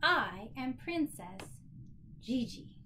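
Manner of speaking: put-on slow, expressive read-aloud to a child; storybook reading. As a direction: let each line land slowly, as the proud princess. Reads picture book aloud.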